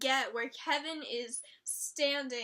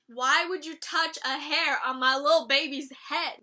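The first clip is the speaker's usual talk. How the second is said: loud, outraged protest; protective outrage; 6 dB louder than usual. Real, not acted. Vlogger upset that Jughead got beaten, outraged.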